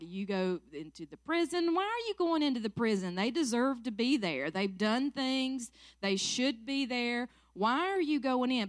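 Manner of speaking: lightly acted, incredulous challenge; imitated disbelief. Critics asking why she goes into the prison, mildly incredulous. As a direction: question it like a puzzled critic, pitch lifting.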